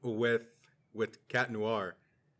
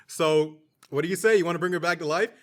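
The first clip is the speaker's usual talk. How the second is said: loud villain taunt; 4 semitones higher, 6 dB louder than usual. Retold or imitated. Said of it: "He's like".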